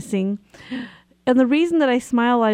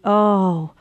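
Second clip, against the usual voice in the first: self-blaming panic. Retold or imitated. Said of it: "I had a choice to think".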